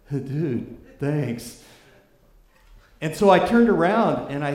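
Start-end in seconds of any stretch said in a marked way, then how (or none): 0.1-1.6 lightly voiced California dude accent; a hint of California surfer drawl; mock California surfer. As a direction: toss off a casual California dude thanks. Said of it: "missing from Californian was the word dude".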